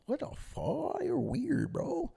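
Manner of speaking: weirded out. Retold or imitated. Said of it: "still confused".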